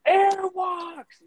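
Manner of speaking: high, loud hallway yell; yelled taunt. Retold or imitated. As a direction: yell it out like a mocking announcement. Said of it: "Yells it".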